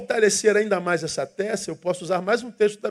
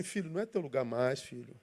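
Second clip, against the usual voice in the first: softer, tender voice of conscience pleading; gentle inner voice; 3 semitones lower, 7 dB quieter than usual. Retold or imitated. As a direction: coax the child away from danger softly. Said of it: "Tem uma vozinha lá dentro falando assim".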